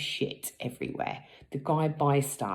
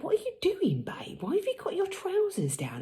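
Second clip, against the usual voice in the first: whispered retelling. Retold or imitated. Husband's puzzled question retold.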